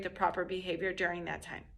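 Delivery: unvoiced whisper. Real, not acted. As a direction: drop to a whisper for emphasis. Sudden whisper in explanation.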